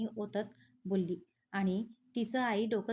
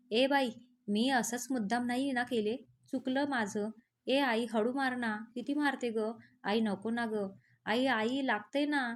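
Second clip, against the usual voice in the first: pleading cry; 2 semitones higher than usual. Acted. Girl begging her mother to stop the beating, wailing.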